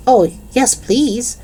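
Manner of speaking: high, put-on French accent. A narrator's reading. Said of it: "in his best French accent".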